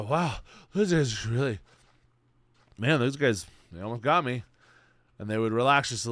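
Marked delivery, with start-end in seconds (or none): 0.0-4.4 relieved zebra. Acted. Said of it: "They go".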